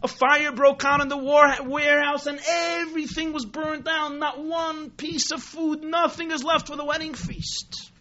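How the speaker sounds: mock distraught announcement. Manager telling the wedding crowd of the fire, mock distraught. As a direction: report a disaster in put-on dismay. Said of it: "very perturbed, and he shouts".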